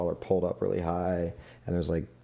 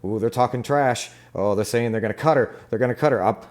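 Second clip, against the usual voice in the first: higher, hurried acted worry; nervous; 3 semitones higher, 3 dB louder, faster than usual. Fixer panicking over the gang's threats, nervous. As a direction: play a fixer getting mildly rattled. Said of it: "he starts getting nervous".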